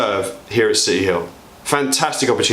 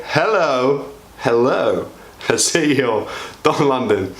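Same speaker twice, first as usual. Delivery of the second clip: laughing; slower than usual. Real, not acted.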